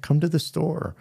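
a mild hammed-up burst of agreement; eager yes. Grocery owner eagerly agreeing to help the pastors, bright and eager.

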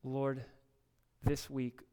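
steady, earnest prayer voice. Real, not acted. Pastor closing the service in prayer, earnest. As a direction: lift it up to God.

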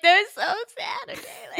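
high, loud, laughing protest; exasperated protest. Retold or imitated. To Asher, defending crying over basketball boys: laughing high protest. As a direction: squeal it out defensively through a laugh.

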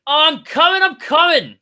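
high shout from up on the roof; yelling from a roof. Acted. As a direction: call out, high and loud.

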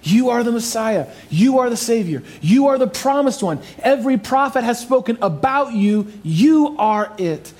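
fervent declaration. Acted. Preacher voicing Peter's confession.

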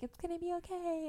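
high, soft imitation of a soothing mom; retold reassurance. Mom comforting her crying daughter, soft and high. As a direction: gently coo it as a comforting mother.

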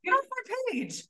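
yelling at a commenter named Karen, hammed up; mock furious rant. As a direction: tell off a troll over the top. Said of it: "I'm like".

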